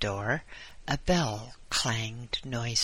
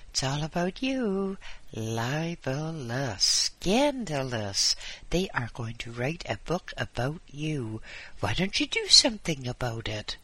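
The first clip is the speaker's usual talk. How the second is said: excited visitor; 3 semitones higher than usual. Acted. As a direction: fret and fuss over the news.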